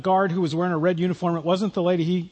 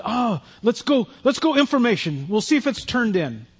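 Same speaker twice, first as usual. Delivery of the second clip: lightly imitated Eastern European accent, higher at first; 4 semitones higher than usual. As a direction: offer help in a halting Eastern European accent. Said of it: "real heavy kinda Eastern European accent".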